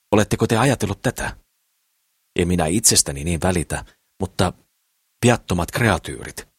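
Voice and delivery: a hint of an indignant little man, preaching; lightly voiced dwarf Sakris. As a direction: scold the hunter about innocent creatures. Dwarf Sakris lectures the hunter. (kevyesti esitetty kääpiö saarnaamassa)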